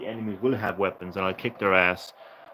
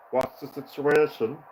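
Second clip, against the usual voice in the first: mock Welsh accent; 4 semitones higher, 5 dB louder, slower than usual. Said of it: "Terrible Welsh accent".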